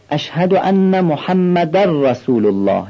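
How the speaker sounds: محمد رسول said with the n merged into the r; merged tanwin. Shown as a demonstration. Teacher demonstrating idgham to students, slow. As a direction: slide the nunation into the ر of رسول.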